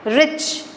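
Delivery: "रिच" said in one go; one syllable. Shown as a demonstration. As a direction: say "रिच" as a single unbroken beat. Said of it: "एक ही बार में बोलेंगे".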